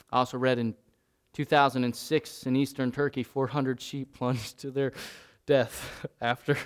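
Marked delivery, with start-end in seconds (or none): 5.4-6.6 real laugh bursting in mid-reading; breaking into laughter. Real, not acted. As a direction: lose it on a grim word. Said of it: "I can't even read it without laughing".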